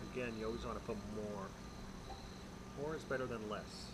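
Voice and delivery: muffled through a respirator mask; talking behind a respirator; through an N95 mask. Real, not acted. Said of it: "I'm gonna sand it with the respirator".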